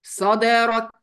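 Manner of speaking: صدرك with the دال bounced; qalqala. Shown as a demonstration. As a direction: stress the echo on the د in صدرك.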